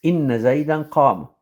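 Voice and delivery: "زيدا" pronounced Zaydan, with -an; quick phrase with -an closing "زيدا"; corrected case ending. Shown as a demonstration. Teacher repeats the corrected example, -an ending on "زيدا". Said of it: "it's زيدا".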